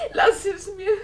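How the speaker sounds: cling to it through tears; tearful plea. Acted. Dolly pleading.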